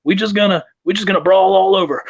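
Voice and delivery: imitated wrestler pitching a lazy plan, high; put-on high voice, playfully proposing; Dion. Wrestler tells buddy his match plan, high mock voice. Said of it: "He's like".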